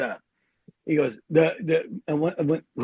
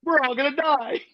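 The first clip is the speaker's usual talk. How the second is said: high-pitched mock-British soldier; British accent; 7 semitones higher than usual. British soldier warning the boys they'll die, mock British accent. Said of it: "you know, the British accent".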